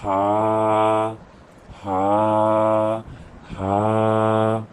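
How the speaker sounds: Arabic हा breathed softly from the back of the throat; हलक के आखिरी हिस्से से नरम हा. Shown as a demonstration. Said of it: "वहाँ से नरम आवाज़ निकलती है".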